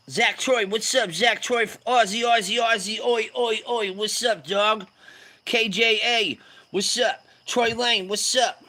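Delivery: high, punchy roll call of greetings; excited shout-outs. Real, not acted. Shouting out arriving viewers.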